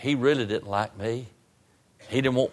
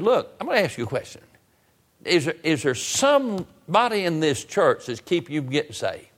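retold exasperated questioning, pitched up; half mad; 5 semitones higher than usual. Preacher questioning the unsaved young man, half mad. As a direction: confront him, mildly fed up. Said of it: "I walked in about half mad".

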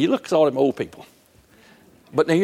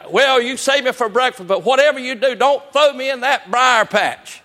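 higher, louder, slow frantic begging; desperate rabbit pleading; 10 semitones higher, 4 dB louder than usual. Retold or imitated. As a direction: plead even harder this time. Rabbit pleads again, bigger.

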